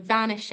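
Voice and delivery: "vanished" said as BAN-ish-ED; extra syllable. Shown as a demonstration. Teacher on the repetition of the word, extra syllable in "vanished". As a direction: sound the -ed of "vanished" as its own syllable. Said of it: "accent on "vanished" adds".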